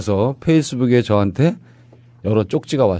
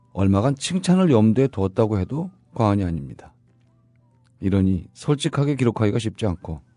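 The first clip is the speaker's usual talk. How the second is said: radio host reading. Acted. Scripted radio show opening.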